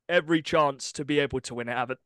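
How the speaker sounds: talking through hiccups; hiccuping between words. Real, not acted. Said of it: "Sorry, I got the hiccups".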